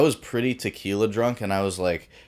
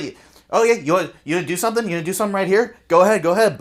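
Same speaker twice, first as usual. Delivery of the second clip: high, loud, fast taunt, daring him to swing; mock taunting challenge; 10 semitones higher, 5 dB louder, much faster than usual. Brazilian taunting the big guy before a crowd, loud and high. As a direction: goad the big guy to hit first.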